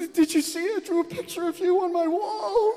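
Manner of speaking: put-on very high, excited child voice; imitated little daughter. Daughter tells dad about her drawing, high proud voice. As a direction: squeal it proudly like a small kid. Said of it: "And she's like".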